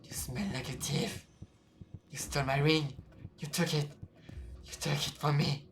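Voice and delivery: a ghost hissing at a thief; accusing ghost. Acted. Ghost accuses player of theft.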